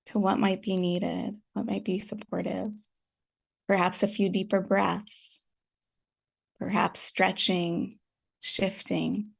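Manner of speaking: unhurried meditation guidance with long pauses; calm, spacious meditation teacher's delivery; guided meditation. Real, not acted. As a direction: gently guide them to settle, leaving space between phrases.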